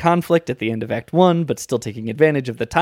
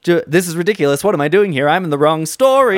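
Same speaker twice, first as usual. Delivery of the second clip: Joanna Gleason impression; 3 semitones higher, 3 dB louder than usual. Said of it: "I mean, Joanna Gleason".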